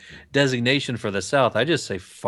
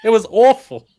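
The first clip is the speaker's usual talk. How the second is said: laughing; 10 semitones higher, 5 dB louder than usual. Real, not acted. Giggling over a brain fart joke.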